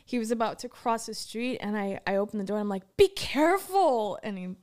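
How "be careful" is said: slow, loud, motherly caution; motherly warning. Retold or imitated. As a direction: warn him like a worried mom. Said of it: "like, like a mom?".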